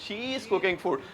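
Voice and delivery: she is merged into one syllable, British style; British way, run she is together; British contraction. Shown as a demonstration. Teacher showing students the British way, blended. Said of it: "वो कह रहे हैं".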